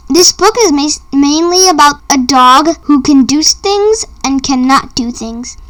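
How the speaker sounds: ordinary delivery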